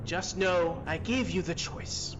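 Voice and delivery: lightly voiced calm menace; calm, stern voice. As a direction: deliver a composed, stern ultimatum. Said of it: "in a very calm, stern voice respond back".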